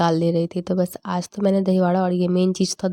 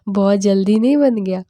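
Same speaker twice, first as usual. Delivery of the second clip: louder, exasperated mimicry of mom's words; mocking mom's question; 5 dB louder than usual. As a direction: throw mom's 'बहुत जल्दी नहीं बन गया?' back at her, louder and fed up. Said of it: "mummy कर रही है".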